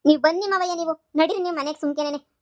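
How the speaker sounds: urgent plea. Acted. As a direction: beg him to come along. Pleading with father-in-law to come.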